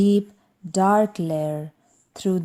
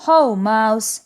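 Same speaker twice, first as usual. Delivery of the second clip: hearty greeting; 3 semitones higher, 7 dB louder than usual. Acted. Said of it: "says Hare".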